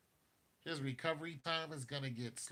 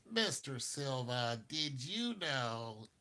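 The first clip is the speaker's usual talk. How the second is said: mock stern letter; much slower than usual. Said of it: "write Adam Silver a strongly worded letter".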